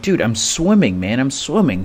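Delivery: insist, a touch exasperated; exasperated protest. Retold or imitated. Protesting to friend while swimming.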